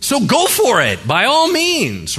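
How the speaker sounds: preaching loud. Real, not acted. Preacher rousing the congregation, loud and high.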